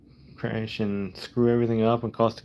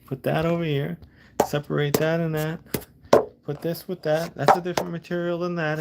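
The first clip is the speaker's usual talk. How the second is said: a hint of an old guy correcting, pitched higher; mildly mimicking a know-it-all old guy; lightly voiced old guy; 6 semitones higher than usual. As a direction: play the scrap-yard guy giving instructions, higher. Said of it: "And he's like".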